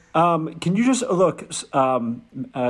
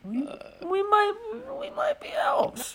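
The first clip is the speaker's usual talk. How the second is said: high, slow, whispered confession; hushed admission; 4 dB quieter, slower than usual. Acted. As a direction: elf nervously confessing to the trucker, whispered. Elf admits being elf, hushed.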